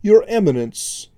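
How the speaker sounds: lightly voiced oily envoy; a hint of smooth oily menace; firm but oily voice. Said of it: "spoke in a firm but oily voice".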